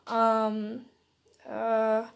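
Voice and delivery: soft, halting fillers; a hint of flustered hesitation; sputtering. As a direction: sputter in embarrassment. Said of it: "Uraraka sputtered".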